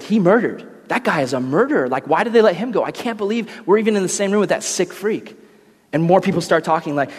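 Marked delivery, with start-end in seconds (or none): 0.0-5.4 indignant gossip. Acted. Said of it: "they point to the guy".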